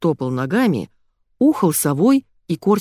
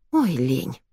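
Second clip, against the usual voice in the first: lazy groan; 4 semitones lower, 3 dB quieter than usual. Acted. Narrator's lazy inner sigh.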